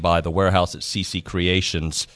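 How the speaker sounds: radio station ident over music; sponsor announcement. Acted. Host brings the show back with sponsor names, announcer read.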